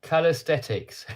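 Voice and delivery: slow, tentative go at saying Calisthenics; careful pronunciation attempt. Shown as a demonstration. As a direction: try out Calisthenics slowly, unsure it is right. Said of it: "Is that how you say it?".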